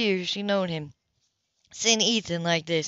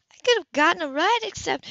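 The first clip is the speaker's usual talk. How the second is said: higher, louder woman's protest; heated woman; 10 semitones higher, 4 dB louder than usual. Acted. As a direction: protest hotly before he cuts in. Grace argues back.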